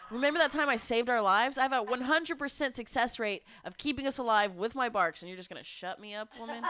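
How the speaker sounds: voicing the proud dog scolding its owner; dog's voice. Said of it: "He's like".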